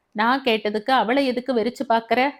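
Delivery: quick, sharp scolding question; a mother-in-law rebuking, mildly acted. Mother-in-law scolds daughter-in-law for glaring, quick mild scold. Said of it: "மாமியார் அதட்டினாள்".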